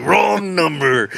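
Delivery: high, slowly stretched mock yell; hammed-up high cry through laughter; mock holler. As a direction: imitate someone hollering, words drawn out. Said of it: "He's like".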